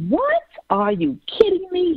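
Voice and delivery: squeaky, high-pitched pretend shock; mock disbelief. Host voicing an imagined listener, shocked and high-pitched. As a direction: play a stunned listener who can't believe it.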